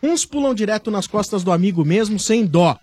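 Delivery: upbeat radio commercial read. Acted. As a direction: sell the painkiller, playful. Dorflex sponsor read.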